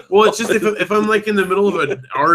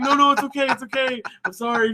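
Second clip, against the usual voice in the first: tag; 12 semitones higher than usual. Retold or imitated. Retells soothing his scared child.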